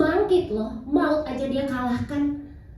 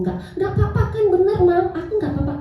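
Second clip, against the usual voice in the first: put-on higher, anxious child seeking reassurance; a little boy asking once more if he's safe; worried child; 6 semitones higher, much faster than usual. Son asking mother again if he'll be fine, anxious child voice. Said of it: "dia masih nanya".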